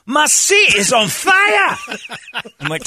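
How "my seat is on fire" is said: high, loud, slow wail; mock anguished shout. A friend on the heated seat, loud mock wail. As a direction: cry it out like you're burning. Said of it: "friend shouting in hot seat".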